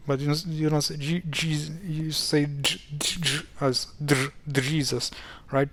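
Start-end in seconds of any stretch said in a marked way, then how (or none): 3.0-4.3 J broken into a d plus zh; two sounds in J. Shown as a demonstration. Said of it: "You have two sounds there". 4.5-5.1 Jesus opening on d plus zh; Jesus with the J split as d-zh; two-sound J. Shown as a demonstration. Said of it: "You have two sounds there".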